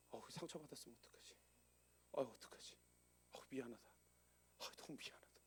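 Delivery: soft worried self-talk fading to a whisper; anxious murmur. Retold or imitated. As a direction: whisper his guilt to himself. Anxious inner voice, remorse. (미안한 마음에 속삭이듯 혼잣말)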